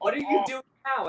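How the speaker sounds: husband asking what she is doing, imitated high and quick; imitating exasperated husband. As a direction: play the husband, fed up. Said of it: "John goes".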